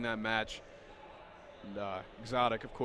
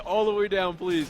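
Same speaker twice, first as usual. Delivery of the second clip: louder, laughing through the words; 5 semitones higher, 9 dB louder than usual. Real, not acted. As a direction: laugh while pleading. Laughing at cohost's outburst.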